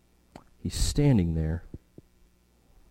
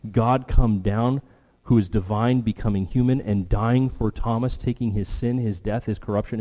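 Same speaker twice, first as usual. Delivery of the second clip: rising preaching fervour; 2 semitones higher than usual. Real, not acted.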